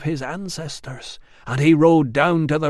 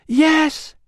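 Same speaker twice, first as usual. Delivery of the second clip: put-on high child's yes; 7 dB louder than usual. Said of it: "child's companion replies".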